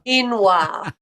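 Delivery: quinoa said firmly as KEEN-wah; correcting pronunciation. Shown as a demonstration. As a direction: set him straight: quinoa, KEEN-wah. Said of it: "Everyone except you knows how to say it".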